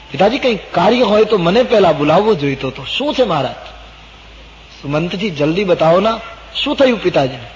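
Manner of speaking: storyteller's alarmed Ram; anxious questioning. Acted. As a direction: press urgently for an answer. Ram anxiously questions his weeping father.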